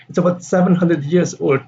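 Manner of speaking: put-on SEVEN high, then falling through "years old"; stress on SEVEN. Shown as a demonstration. Teacher's answer to Dave, stress on SEVEN. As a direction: hit "seven" and leave "old" unstressed. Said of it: "seven is, uh, stress here".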